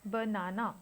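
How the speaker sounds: "banana" with the middle syllable leaned on; stress on second syllable. Shown as a demonstration. Teacher shows where stress falls, "banana" with stressed middle syllable. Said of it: "and the second syllable".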